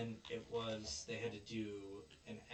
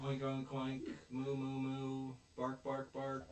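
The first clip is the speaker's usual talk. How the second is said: bad animal noises; 3 semitones higher, slower than usual. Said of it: "did a really bad version".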